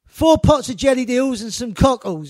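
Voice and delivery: loud retold call across a stall; shouted order. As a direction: bellow the order over the street noise.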